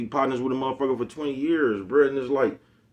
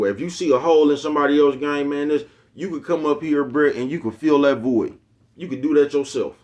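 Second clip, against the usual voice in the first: raised emphatic push; 4 semitones higher, 5 dB louder than usual. Real, not acted. Heated advice to haters.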